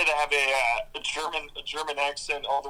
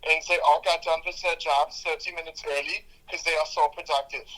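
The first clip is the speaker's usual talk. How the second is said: a light put-on German accent, deadpan; mock German accent. Host telling a German joke to his co-host, in a light mock German accent. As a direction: tell it like a dry German joke-teller, only half in the accent. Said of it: "You want to hear German joke?".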